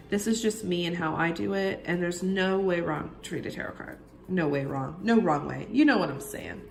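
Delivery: husky voice after a cold; rough, worn-out voice from a cold; whiskey voice. Real, not acted. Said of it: "sorry about my kind of whiskey voice".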